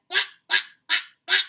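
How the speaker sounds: big excited duck calls; loud high quacks. Retold or imitated. Teacher voicing mother duck calling loudly for her ducklings. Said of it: "Mother duck said".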